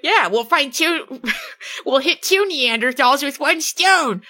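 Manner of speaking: drawn-out plotting tone; sly slow Phoebe. Retold or imitated. Phoebe voiced, slow and higher.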